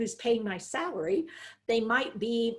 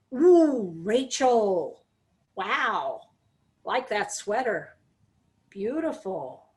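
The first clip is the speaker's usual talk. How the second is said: respectful compliment; much slower than usual. Shown as a demonstration. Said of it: "And instead".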